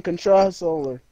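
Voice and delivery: "controller" slipped into "contra-soler"; "controller" with an extra S sound; mispronounced controller. Real, not acted. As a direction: put a stray S into "controller". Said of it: "doesn't even have an S in it".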